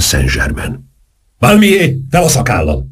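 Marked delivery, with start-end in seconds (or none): 1.4-2.9 kiáltva. A narrator's reading. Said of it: "kiáltotta".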